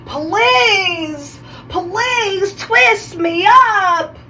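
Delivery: high, drawn-out mock scream; hammed-up desperate plea, stretched out; pleading roots. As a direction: whine it long and high, begging dramatically. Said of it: "They were screaming at me like".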